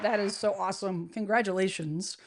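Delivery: usual speaking voice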